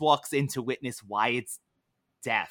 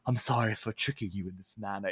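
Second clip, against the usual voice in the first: soft, fast, lower put-on English accent; fake English accent; 5 semitones lower, 7 dB quieter, faster than usual. Imitating Gideon apologizing to baby Wyatt, mock English accent. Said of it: "my fake English accent".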